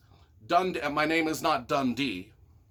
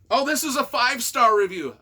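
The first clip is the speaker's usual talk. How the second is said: pleasantly surprised; 6 semitones higher, 7 dB louder than usual. Real, not acted. Surprised to find five-star review.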